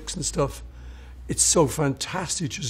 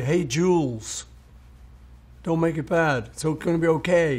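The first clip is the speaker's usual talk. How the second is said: reassuring; 2 semitones higher than usual. Retold or imitated. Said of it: "it was like a reassurance song".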